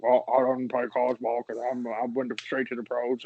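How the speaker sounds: half-successful impression of a bragging star; lightly put-on mumbled retort; mildly imitated athlete answering back; Shaq. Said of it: "I can't do Shaq very good".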